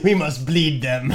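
mock Russian accent. Friend parodies the Russian man.

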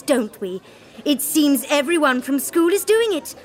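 ordinary talk

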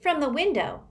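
high-pitched startled reply; surprised. A narrator's reading. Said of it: "looked every bit as surprised".

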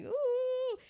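high, drawn-out "ooh"; mimicked "ooh". Reviewer mimicking a man finding a body, high mock ooh.

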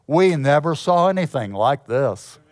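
a hint of a Southern accent. Shown as a demonstration. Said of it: "Did you detect a little southern accent on that?".

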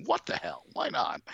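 mock incredulous shrug. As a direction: toss it out like an easy yes. Acts out own reaction to offer.

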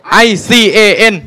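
hammed-up loud letter recital; proud spelling. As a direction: spell each letter with bluffing confidence. Boy spells the word aloud.

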